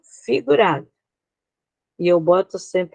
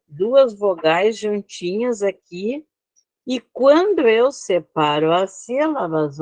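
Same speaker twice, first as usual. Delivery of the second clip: ordinary talk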